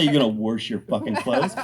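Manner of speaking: WASH said with an r, as "worsh"; mocking "worsh" for wash; regional pronunciation. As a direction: put an r into wash, indignant "worsh". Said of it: "People talk funny".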